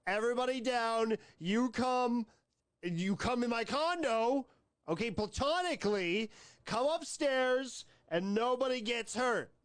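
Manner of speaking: lightly voiced fake stick-up; mock hold-up voice. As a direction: bark orders like a hammy robber, half joking. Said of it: "why you're talking like this the entire time".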